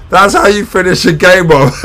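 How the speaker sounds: high and loud, still buzzing; thrilled fan gloating over the finish; excited. Real, not acted. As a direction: crow it right after the final whistle.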